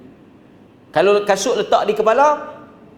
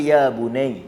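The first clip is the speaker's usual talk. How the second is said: gentle call; 6 semitones lower, slower than usual. Shown as a demonstration. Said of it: "Panggil elok-elok lah".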